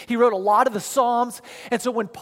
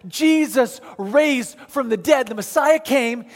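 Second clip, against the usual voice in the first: raised, insistent pulpit delivery; impassioned preaching; 3 semitones higher than usual. Real, not acted. Preacher telling the congregation of the resurrection, impassioned preaching. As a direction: proclaim it with building conviction.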